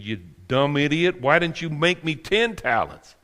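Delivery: usual speaking voice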